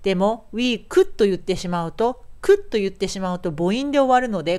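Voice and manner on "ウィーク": "ウィーク" ending in a full Japanese "ku"; katakana vowel ending. Shown as a demonstration. Teacher shows the mistake, "ウィーク" with katakana vowel. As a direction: add a u vowel after the k in "ウィーク". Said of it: "これは思い切りカタカナなわけですね".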